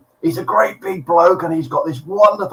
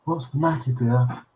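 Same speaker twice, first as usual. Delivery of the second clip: whispered; 8 dB quieter than usual. A narrator's reading. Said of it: "she whispers".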